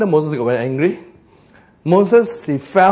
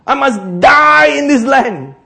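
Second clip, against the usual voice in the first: crying lament; 8 semitones higher, 7 dB louder, slower than usual. Acted. Moses lamenting, cry shout heard.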